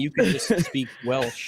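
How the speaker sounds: speaking through a laugh; chuckling as you tease. Real, not acted. Laughing while teasing.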